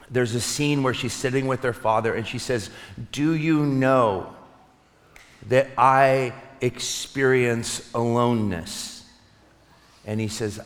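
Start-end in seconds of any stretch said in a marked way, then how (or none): 3.1-9.0 slow retold confession, long pause mid-question; slow, halting quote of a vulnerable daughter.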